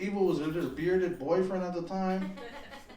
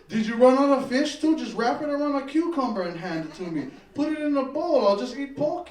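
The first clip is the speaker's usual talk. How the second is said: mock angry; 5 semitones higher, 5 dB louder than usual. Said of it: "quoted at server".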